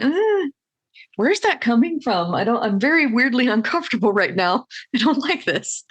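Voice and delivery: uncomfortable, weirded-out voice; awkward stranger. Retold or imitated. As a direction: play someone creeped out. Acting out awkward stranger reaction.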